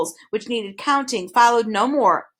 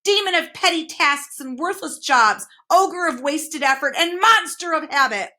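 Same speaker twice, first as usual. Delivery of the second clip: much higher, louder demon proclaiming himself; villainous demon boast; 7 semitones higher, 3 dB louder than usual. A narrator's reading. Demon Trivium boasting to Milo and Tok, villainous. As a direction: announce your terrible title with relish. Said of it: "with a villainous laugh".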